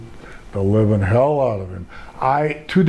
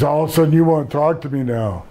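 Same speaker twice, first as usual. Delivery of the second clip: higher-pitched, quick mimicry of condescension; mock condescending; 4 semitones higher, faster than usual. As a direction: mimic his snide put-down, quick and high. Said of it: "said something real condescending to me".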